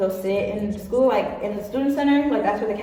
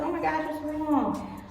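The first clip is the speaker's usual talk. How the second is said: high, drawn-out fussing over someone; softly cooed mock sympathy; mock concern; 6 semitones higher, 6 dB quieter than usual. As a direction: imitate a concerned friend, high and slow. Friends approach her as she cries.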